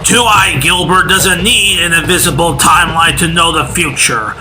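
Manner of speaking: ranting prophet. Acted.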